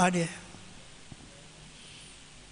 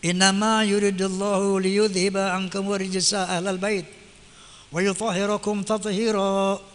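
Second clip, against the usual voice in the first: recited verse. Acted.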